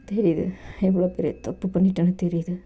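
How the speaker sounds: put-on calm older lover. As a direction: soothe him like a child who got hurt. Dev admits his mistake.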